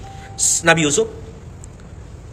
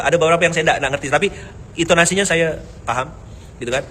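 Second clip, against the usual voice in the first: ordinary talk, nothing marked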